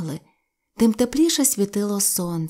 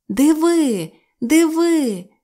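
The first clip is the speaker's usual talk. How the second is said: put-on high, loud child's call; excited call; 5 semitones higher, 4 dB louder, slower than usual. Sylvia calling to her brother, high and excited. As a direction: point and shout with delight. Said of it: "гукнула Сільвія".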